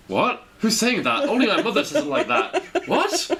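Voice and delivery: confused surprise. Retold or imitated. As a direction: act startled and puzzled. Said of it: "I hear it and I go".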